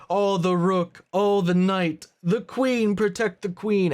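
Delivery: lightly hammed-up anxious aristocrat; mocking Lestat's chess voice. Mocking Lestat guarding his big chess pieces, high fussy voice. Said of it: "He's like".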